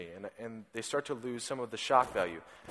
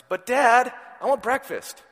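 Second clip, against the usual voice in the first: put-on much higher, louder little-boy plea; whiny toddler; 9 semitones higher, 8 dB louder than usual. Shown as a demonstration. Father imitating his son begging for breakfast, high whine. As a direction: whine it like a hungry three-year-old.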